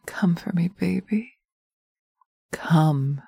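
breathy urging whisper. Acted. Dominant partner urging the listener to climax, whispered. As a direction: whisper it urgently, barely voiced.

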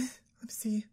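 slow whispered aside. Acted. Girlfriend whispering as she opens her boyfriend's text, curious. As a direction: whisper it slowly to yourself.

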